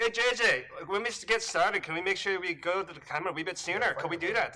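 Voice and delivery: lightly imitated Scottish accent; Tommy Gormley. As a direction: call out as a Scottish assistant director. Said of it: "my goal was to imitate Tommy".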